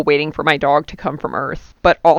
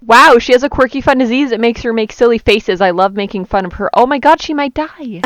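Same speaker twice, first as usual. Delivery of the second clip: higher, louder, gushing cheerfulness; mock bubbly narrator; 4 semitones higher, 3 dB louder, faster than usual. Cohost mocks the diary's breezy tone with hammed-up cheer. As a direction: gush about the quirky disease like it is cute. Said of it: "the stakes are just like".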